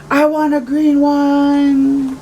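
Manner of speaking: put-on high, loud, slow kid demand; booming boy. Samuel pushing past Henry for a green square, booming. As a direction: boom it out like a thunderstorm.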